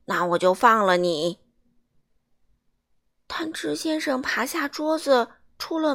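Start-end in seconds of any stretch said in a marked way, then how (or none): 0.1-1.4 lower, louder giant; deep giant voice. A narrator's reading. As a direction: rumble it like a big giant. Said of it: "巨人说".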